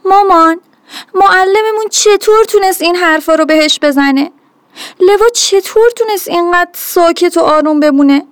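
lightly voiced upset girl, near tears; tearful daughter. A narrator's reading. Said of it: "و دوباره زد زیر گریه".

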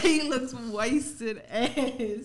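very slow, stretching every word; drawn out. Retold or imitated. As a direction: lean on it slowly for effect. Retells drunk teacher, drawn out.

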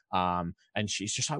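ordinary talk, nothing marked

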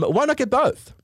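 high, jingly ad-style delivery; mock advert voice, high. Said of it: "Old El Paso ad".

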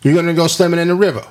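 bad New York accent. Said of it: "That was a bad New York accent".

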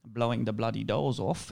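lightly imitated Cockney accent, slow; a hint of slow Cockney in the quote; Michael Caine. Guest quoting the actor's book title, lightly mock Cockney accent. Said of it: "that's a good Michael Caine impression".

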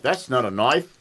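amateur Australian movie-line impression; Australian accent. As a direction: quote it in a rough-and-ready Australian accent. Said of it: "a couple things with an Australian accent".

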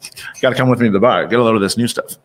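lightly voiced old-timey gent; a hint of a 1870s barfly. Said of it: "this is my old timey".

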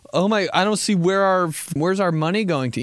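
high fussy put-on voice; mock church mom. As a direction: fret like a churchgoer.

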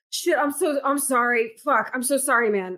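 jittery, high, rambling junkie apologies; twitchy slurred sniffing addict. Pretend. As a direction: act like a strung-out addict. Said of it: "I'm gonna act like a junkie".

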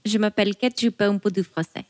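ladylike French. Shown as a demonstration. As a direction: say it daintily in French. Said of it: "that was very ladylike".

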